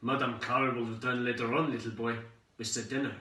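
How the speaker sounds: put-on lightly growled crooked old landlady. Landlady to the little boy, mildly growled. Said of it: "She growled".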